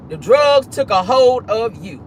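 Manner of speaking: slow, deliberate pronouncement; weighty, drawn-out delivery; emphatic repeat. Real, not acted. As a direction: spell it out slowly, word by word.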